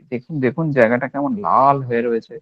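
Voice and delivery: lightly acted patient pointing at the spot, stressing লাল; mock insistent show-and-tell of a red patch; a patient hamming up a red rash to the doctor; showy patient complaint. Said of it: "কথা বলার টোনটা দেখুন".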